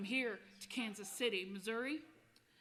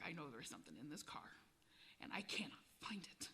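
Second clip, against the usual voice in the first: frustrated officer; 7 semitones lower, 11 dB quieter than usual. Retold or imitated. Thwarted younger officer retold.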